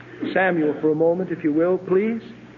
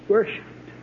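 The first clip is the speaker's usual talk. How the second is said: hushed whisper. Shown as a demonstration. Preacher hushes the word worshipped before his congregation. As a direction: breathe the word worshipped almost voiceless. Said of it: "repeats the word twice, differently".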